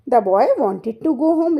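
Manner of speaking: put-on very slow, word by word for children; slow classroom read-aloud; slow story reading. Shown as a demonstration. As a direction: read each word slowly so kids follow. Reads English story line to class.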